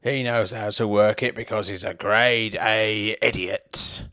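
dad shouting to his mates across the bookies; yelling dad. Acted. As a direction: bellow it teasingly over the noise. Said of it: "yelled at the top of his voice".

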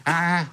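comic moan in the uncontrolled real voice; mock pleasure moan. Man demonstrating his bedroom noises to a friend, mock moan. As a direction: moan as if caught unawares. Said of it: "les bruits de jouissance".

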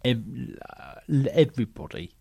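low, soft, halting reassurance; calm him down quietly, pausing between phrases; gently reassuring. Acted. Coach settling a nervous actor, low and reassuring.

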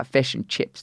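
"fish and chips" with clipped Kiwi vowels; New Zealand accent. Shown as a demonstration. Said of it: "that's how they talk".

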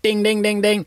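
high, ringing "ding, ding, ding"; imitated ding-ding. Guest calling the party to silence, imitated ringing. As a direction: mimic a glass being tapped for silence.

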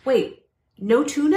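stunned disbelief, drawn out; shocked. Real, not acted. Shocked reaction to news.

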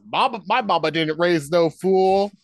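hammed-up amateur Jamaican accent; a terrible first-time Jamaican accent, loud and slow; bad Jamaican accent. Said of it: "With a terrible, like, first ... Jamaican accent".

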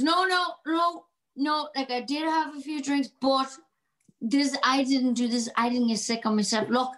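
a tipsy husband talking his way out of trouble; drunk man pleading. Retold or imitated. Drunk husband protesting his innocence to his wife, lightly slurred. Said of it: "you play a stunning drunk person".

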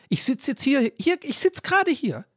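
mock his own moaning; mock whine. Mocking himself moaning into his phone.

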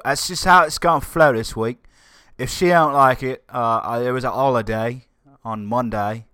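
put-on slipping into a playful British accent; mock British accent. Host joking about his work schedule in a mock British accent. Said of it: "why I'm speaking in a bloody accent".

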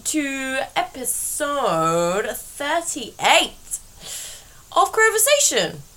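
words stretched right out with long pauses; tired, very slow. Real, not acted. Podcast host greets listeners through her fatigue, very slow. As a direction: draw every word out wearily, as slowly as you can. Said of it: "This might be the slowest I've ever spoken".

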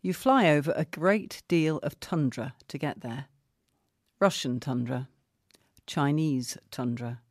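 deliberate, dramatised reading with long pauses; comic article reading. Acted. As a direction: read the travel piece aloud, milking the repetitions. Reads a comic article aloud.

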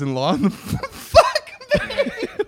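laughing while reading. Real, not acted. Reading letter, breaks into laughter.

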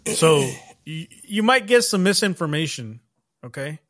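lightly voiced smooth politician; a hint of a glad-handing politician. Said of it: "doing my politician impression".

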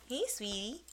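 soft unvoiced aside to the dog; whispered aside. Real, not acted. A quick whisper to the puppy mid-story. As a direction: whisper a quick hey sweetie.

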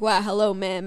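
put-on American farmer accent. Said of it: "He's like".

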